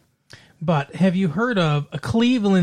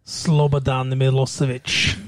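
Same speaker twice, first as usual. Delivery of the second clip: Eastern European accent; 4 semitones lower than usual. Shown as a demonstration. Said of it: "there's an accent I can do".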